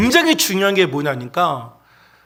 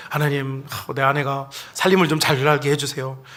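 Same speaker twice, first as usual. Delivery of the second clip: lower-pitched, subdued imitated prayer; praying husband; 4 semitones lower, 4 dB quieter than usual. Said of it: "막 이렇게 기도를 해요".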